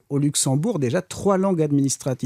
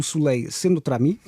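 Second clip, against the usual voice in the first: put-on Portuguese accent. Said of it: "l'accent portugais".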